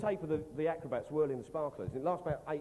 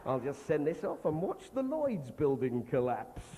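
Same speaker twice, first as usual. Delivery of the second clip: mock plotter; 3 semitones lower, slower than usual. Mock conspirator voice.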